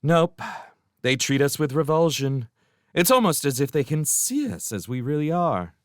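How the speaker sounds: put-on high, childlike, sulky servant voice; sulky orphan imps. A narrator's reading. Orphan servants to their master, sulkily. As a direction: whine the excuse up at the master.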